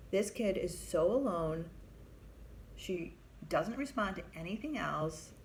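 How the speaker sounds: retold indignation that turns pleading; indignant protest. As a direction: plead with the boss through outrage. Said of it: "I am incensed".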